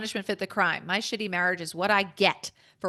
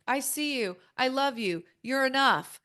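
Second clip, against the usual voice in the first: mock self-affirmation; 4 semitones higher than usual. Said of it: "put my hand on my heart".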